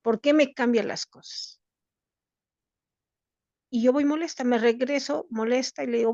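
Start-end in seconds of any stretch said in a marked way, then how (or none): 0.0-1.6 annoyed. Retold or imitated. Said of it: "Yo ya estaba molesta y le dije".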